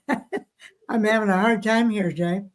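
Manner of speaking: sleepy, yawning through words. Real, not acted. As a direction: talk through a yawn. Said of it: "I apologize for yawning".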